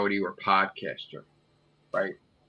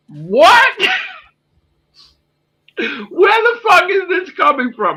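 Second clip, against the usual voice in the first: high shrieking angry shout; furious Davros; 7 dB louder than usual. Retold or imitated. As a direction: scream it out, really mad. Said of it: "and he's like".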